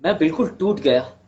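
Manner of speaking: measured storytelling with long pauses; understated monologue, pausing heavily between sentences; dramatic monologue. Acted. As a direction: recount a hard life story in earnest, phrase by phrase.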